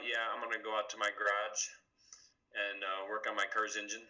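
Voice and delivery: Michigander stressing the R's; casual Michigan accent, hard R's; Michigan accent with emphasized R's. Shown as a demonstration. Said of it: "Emphasizing your R's".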